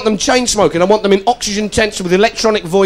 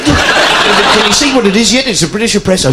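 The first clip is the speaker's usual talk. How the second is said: Rolf Harris impression. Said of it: "Rolf Harris has gone fucking mad".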